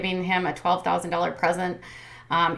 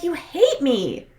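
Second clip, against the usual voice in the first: mock tearful; 8 semitones higher, slower than usual. Retold fight, Mackenzie upset.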